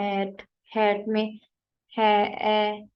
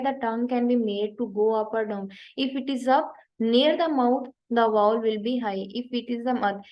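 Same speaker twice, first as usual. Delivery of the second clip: reading the definition very slowly, word by word; slow reading aloud; much slower than usual. Shown as a demonstration. Teacher reading the textbook definition slowly to students. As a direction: read it out slowly like dictation. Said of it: "reads definition of high vowel".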